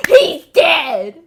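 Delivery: high, explosive shout; sudden over-the-top yell; yelled quote. Acted. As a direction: blurt it out in a mock scream. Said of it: "Why am I yelling?".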